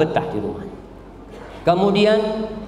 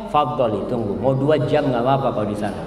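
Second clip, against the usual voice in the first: patient husband; 7 semitones lower than usual. Acted. Patient husband lets wife wait.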